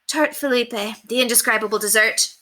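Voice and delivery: high, condescending society chatter; high, gossipy mistress; snobbish gushing lady. Acted. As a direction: brag down to the maid. Lady Constance repeats dish name.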